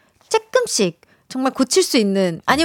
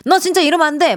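mock scolding; 5 semitones higher, faster than usual. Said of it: "혹시나 호탕하게 누구 이렇게 혼내시거나".

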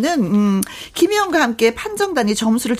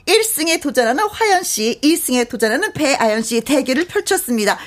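building hype, big reveal at the end; hyped giveaway announcement; 3 semitones higher than usual. Acted. Host announces contest winner.

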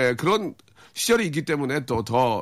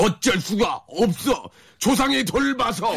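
high, slow comedian impression; comic catchphrase; 9 semitones higher, much slower than usual. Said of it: "히트 유행어 많이 있습니다".

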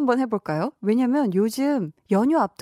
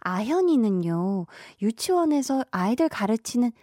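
put-on lisping baby talk. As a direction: say 떤떼님 with a babyish lisp, t for s. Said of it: "혀 짧은 소리는 저도 안 해봤단".

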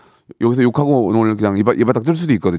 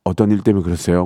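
polite gentle reply; 5 semitones lower than usual. Retold or imitated. Opening the door to an angry neighbor, gently polite. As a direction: calmly ask what's wrong. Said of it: "문 딱 열었는데".

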